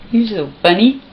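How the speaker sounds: said through a laugh. Real, not acted. Mother laughing at her funny boy. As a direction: let the laugh carry the words. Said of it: "laughing first take".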